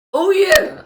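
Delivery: excited shout that breaks; voice crack. Real, not acted. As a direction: voice cracks high on the cheer. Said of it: "That was an awful voice crack".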